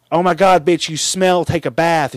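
high, loud mocking girly voice; high mock-bratty scold. Friends mock Power, high voice.

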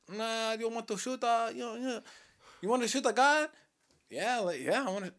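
high, far put-on Asian accent for the driver; a bad mock Asian accent, pitched well up. To friends, mimicking the Thai cab driver in a bad Asian accent. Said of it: "That's, that's my Asian accent".

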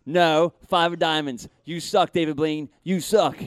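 loud, playful contempt; mock indignation. Spectator scolds the magician for a wrong guess, mock indignation. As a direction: berate him in pretend outrage.

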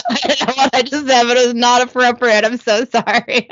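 apologising through real laughter; laughing apology. Real, not acted. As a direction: try to apologise while cracking up. Cracks up at own misreading.

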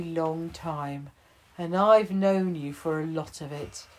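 telling the bear he's a friend; tender chief. Acted.

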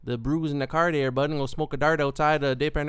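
imitating a thick Montreal local accent; mock Montreal accent. Showing how he doesn't talk, mock Montreal accent. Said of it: "I don't talk like".

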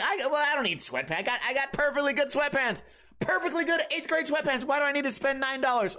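high-pitched tightwad grumbling; mock indignation over spending money, pitched high; frugal protest. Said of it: "you guys know I'm frugal".

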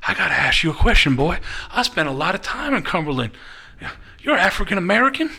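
lightly imitated wrestler, punchy questioning; a hint of a pushy interrogator, lifting the last question; Tommy Rich. Tommy Rich grilling the waiter, lightly fired-up imitation. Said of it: "So Tommy Rich goes".

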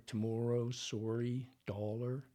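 TOMORROW, SORRY, DOLLAR with Canadian rounded vowels. Shown as a demonstration. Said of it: "the key Canadian sounds".

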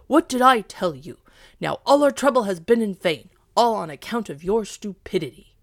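loud, scolding dog voice; angry dog. A narrator's reading. Dog blaming the cat for wasted trouble, angry. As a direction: scold hard at full voice. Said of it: "said the dog angrily".

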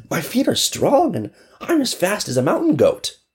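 put-on high little girl voice; a small child insisting she is brave. Orphan girl to the neighbors, high and determined.

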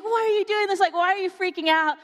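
high-pitched, incredulous mock scolding; exasperated best friend. Best friend questioning her meltdown, exasperated. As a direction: imitate a friend demanding an explanation. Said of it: "like, started shaking me".

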